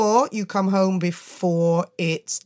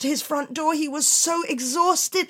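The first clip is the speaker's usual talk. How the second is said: breathless; 9 semitones higher than usual. A narrator's reading. Breathless narration.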